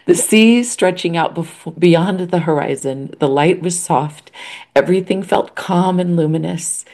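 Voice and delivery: real emotion while reading a letter; choked up. Real, not acted. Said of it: "you might have to finish reading this".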